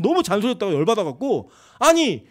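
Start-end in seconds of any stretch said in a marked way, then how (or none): 1.8-2.3 higher, louder mock protest; a retold heated retort; retold talking back. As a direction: push back at mother. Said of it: "제가 대들었어요".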